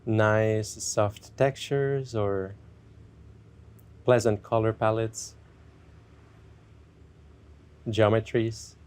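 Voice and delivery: unhurried meditation guide with long pauses; guided meditation. Acted. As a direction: ease listeners gently into checking in with themselves.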